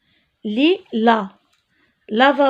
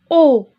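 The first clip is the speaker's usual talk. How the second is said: "O." said loud and held; teacher isolating the "O." sound; sound O stressed; 2 semitones higher, 5 dB louder than usual. Shown as a demonstration. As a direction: punch out the "O." as a clear vowel. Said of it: "c'est le son".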